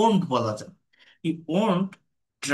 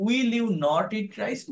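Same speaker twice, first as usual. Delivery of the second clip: "Will you not eat rice?" said slowly and clearly as the right form; correct slow model; 3 semitones higher, much slower than usual. Shown as a demonstration. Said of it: "Will you not বলতে হয়". (সঠিক রূপটা ধীরে স্পষ্ট করে বলা)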